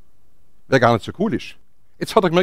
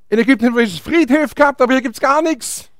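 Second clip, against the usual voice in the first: higher-pitched mock grievance; acted indignant complaint; 4 semitones higher than usual. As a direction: complain like a fed-up crowd. Acted complaint of the people continues. (gespielt empörte Klage)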